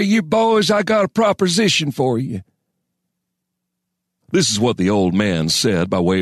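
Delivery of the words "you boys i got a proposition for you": put-on high, creaky old-timer voice; harsh, gravelly old man. A narrator's reading. Old man greeting two sleeping miners, harsh high voice. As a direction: pitch it way up like an ancient wheezy prospector. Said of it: "voice was harsh and gravelly".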